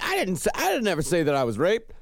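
retold defensive denial; Charles Manson. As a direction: lightly imitate an indignant interviewee. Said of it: "Charles Manson came out like".

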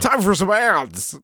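high, drawn-out radio host; slow, strangled announcer throwing to commercials. Pretend. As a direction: put on an overdone broadcaster voice. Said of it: "working out my radio voice".

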